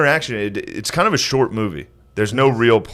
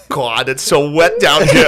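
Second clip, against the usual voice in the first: put-on 1 failed Jewish accent; 3 dB louder, slower than usual. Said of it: "I can't do it".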